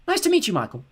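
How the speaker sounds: high, loud bright call; calling through the wall as she runs. Acted. Mina calling to Michael through the wall, loud. Girl calls over wall.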